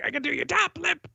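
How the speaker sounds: quick, high NPC patter; high eager helper. Acted. GM voicing a stylist pushing lipstick, high and quick. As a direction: rush the offer in a high voice.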